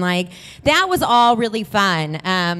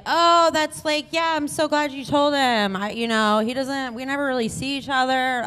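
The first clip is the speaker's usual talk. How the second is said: lightly put-on, higher innocent voice; playing it dumb; 5 semitones higher than usual. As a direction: babble casually to cover up, feigning innocence. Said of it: "continue to play it dumb".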